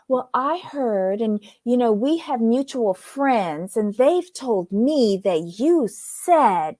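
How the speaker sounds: slow, drawn-out hedging; vague. Retold or imitated. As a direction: imitate someone vaguely passing on gossip. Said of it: "very vaguely".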